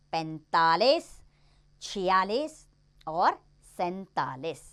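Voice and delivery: each number said loud and separate, with a pause after each; clear counting drill. Shown as a demonstration. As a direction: spell out every number so pupils can copy the pronunciation. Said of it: "इसलिए उच्चारण पे ध्यान दीजिए". (हर संख्या ज़ोर से, साफ़ और अलग-अलग बोलिए)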